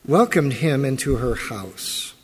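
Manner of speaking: measured Bible reading voice; formal scripture reading. Acted. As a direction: read the passage steadily to the congregation.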